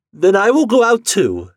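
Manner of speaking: high, loud, agitated resolve; desperate wife. Acted. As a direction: cry it out in desperation.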